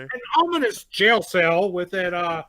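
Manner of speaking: put-on grand old ballroom announcer; old-timey announcer. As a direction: announce each ominous thing like an old newsreel. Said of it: "My, my old-timey announcer".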